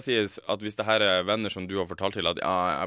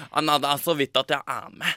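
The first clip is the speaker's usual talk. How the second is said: mock modest; 4 semitones higher than usual. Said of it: "du er så jævlig modest".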